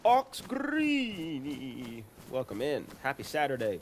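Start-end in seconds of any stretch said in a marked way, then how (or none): 0.0-2.0 high, loud, slow drawn-out name call; excited greeting shout. Real, not acted. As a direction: stretch the name out in a happy hail. Greeting a viewer by calling out.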